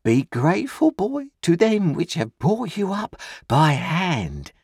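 high, slow lecturing uncle voice; pompous uncle. A narrator's reading. Pumblechook lecturing Pip on gratitude, high and slow. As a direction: wag a finger at the boy. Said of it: "said Mister Pumblechook".

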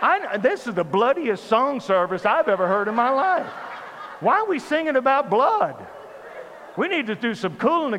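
exasperated, rising disbelief; mock outrage. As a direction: act appalled by what you are hearing. Acts out his shock at songs.

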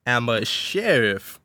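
slow, deliberate mock Texan; hammed-up Texan lawman laying down the law; Texan accent. Sheriff demanding respect, badly faked Texan. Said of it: "person doing a Texan".

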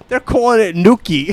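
imitating a giggling daughter making fun; laughing mockery. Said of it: "she starts laughing".

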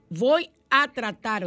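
hammed-up doubtful Voy a tratar, stretched; unconvinced. Shown as a demonstration. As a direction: sound like you don't believe it. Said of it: "yo no estoy convencida".

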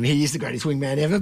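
plain, meant-it praise; sincere. Real, not acted. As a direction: say it and mean it. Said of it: "that one wasn't sarcasm".

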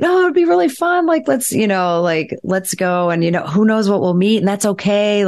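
high, upbeat mock persuasion; eager inner voice. Playful side of the brain urging an outing, acted eagerness. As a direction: start very high and coax eagerly. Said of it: "airtime from these other areas".

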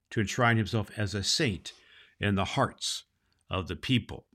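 steady storybook reading voice; story narration. Acted. Santa reading a book chapter to children, gentle story narration. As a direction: read it like a bedtime chapter for kids.

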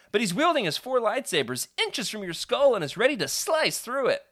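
a hint of excited child at play; lightly voiced kid. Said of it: "he calls back over his shoulder".

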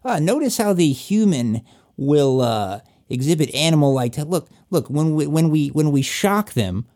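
lightly voiced scientist's commentary; observing scientist. Scientist watching a caged human, lightly voiced detached amusement. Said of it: "like scientists from on the outside of the cage looking in".

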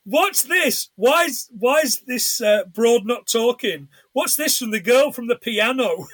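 high-pitched mock yell, laughing through the end; mock screaming and shouting. Retelling Jay's outburst to co-host, mild mock yell. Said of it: "starts screaming and shouting".

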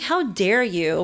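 slow, indignant retort, retold; mock outrage, drawn out slowly; pissed. Zip liner retelling her anger at her friend, pissed. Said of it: "I was so pissed at her".

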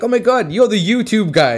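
high-pitched imitation of a starstruck fan; mock gushing recognition, pitched well up; excited fan. Fan spotting the tattooist at the bar, imitated excitement.

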